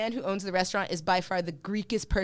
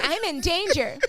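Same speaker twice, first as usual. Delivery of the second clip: higher, amused repeat through laughter; laughing; 7 semitones higher, 4 dB louder than usual. Pretend. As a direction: say it again in a laughing high voice. Repeats own line, laughing.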